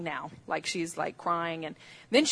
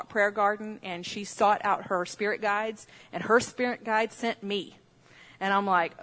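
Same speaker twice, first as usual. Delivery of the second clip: usual speaking voice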